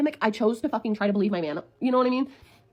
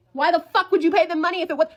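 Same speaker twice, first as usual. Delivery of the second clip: loud, raised-pitch challenge; incredulous outrage; 5 semitones higher, 5 dB louder than usual. Retold or imitated. Challenging the boyfriend who paid the scammers, incredulous. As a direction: demand it with rising exasperation. Retold confrontation of boyfriend's claim.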